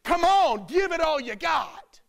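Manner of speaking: rising to a loud rallying push; urging call. Retold or imitated. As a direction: fire them up, come on. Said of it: "He said".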